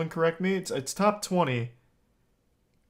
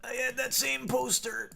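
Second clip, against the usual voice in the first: very high squeak, softer; squealing falsetto; 11 semitones higher, 6 dB quieter than usual. Real, not acted. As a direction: overshoot into a thin falsetto. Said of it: "Oh, I went too far".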